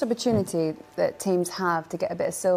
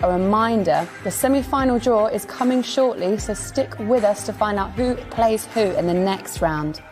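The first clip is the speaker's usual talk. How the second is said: announcer read; 3 dB louder than usual. Acted. Presenter results round-up over music.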